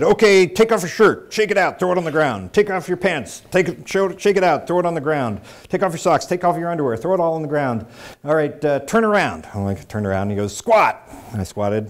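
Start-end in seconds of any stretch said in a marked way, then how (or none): 0.0-9.5 high, loud military commands; barked orders. Retold or imitated. Young lance corporal strip-searches prisoner, shouted orders. 10.6-11.0 single high, loud military order; barked command. Retold or imitated. Lance corporal commands naked prisoner, sharp shout.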